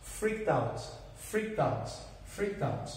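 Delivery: "freaked out" with a T sound joined to "out"; pronunciation demo. Shown as a demonstration. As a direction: say "freaked out" as "freak-tout", the T running into "out". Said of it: "junta o som de T com o out".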